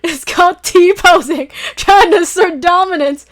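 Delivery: lightly voiced hero, mock solemn; smug hero voice. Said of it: "He's like".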